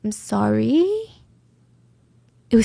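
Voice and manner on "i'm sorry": "sorry" lifted at the end; questioning apology. Retold or imitated. Imitating suspect testing tones, "sorry" rising uncertainly. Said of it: "analyzing their own cadence and tone".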